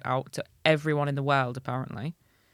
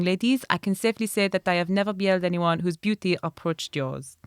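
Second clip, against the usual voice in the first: put-on French accent; 2 semitones higher than usual. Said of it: "I need a voice for Riquet".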